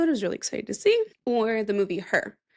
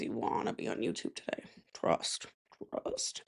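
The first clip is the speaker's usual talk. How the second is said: whispering; 11 semitones lower, 10 dB quieter than usual. Real, not acted. Whispered teaser to audience.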